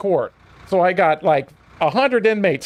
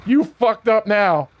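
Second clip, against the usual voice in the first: slow, drawn-out mocking ooh; taunting chorus; slower than usual. Inmates in the hallway mocking him, slow and teasing. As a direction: tease him slowly like a hallway crowd. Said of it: "the other inmates that were standing out in the hallway go".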